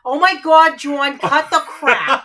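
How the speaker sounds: loud, drawn-out exasperated outburst; real loud exasperation; exasperated yell. Real, not acted. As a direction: yell at him to stop, stretching the words. Wife exasperated by teasing.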